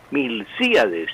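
Milcíades with clear stress on the í. Shown as a demonstration. Professor repeating the correct name, deliberate. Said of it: "con acento en la I de sí".

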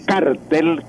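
"cartel" with the stress on the first syllable, CAR-tel; stress-shift demo. Shown as a demonstration. Teacher showing radio listeners the word, first-syllable stress on "cartel". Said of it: "para diferenciar el cartel del cártel".

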